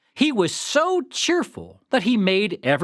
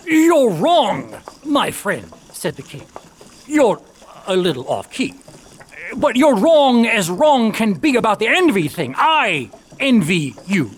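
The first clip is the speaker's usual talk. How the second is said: hearty king; 3 semitones higher, 5 dB louder than usual. Acted. King teases off-key miller.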